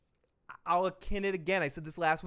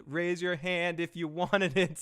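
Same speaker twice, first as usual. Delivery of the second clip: mock Missus Duncan; 3 semitones higher, 4 dB louder than usual. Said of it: "says Missus Duncan the Tall".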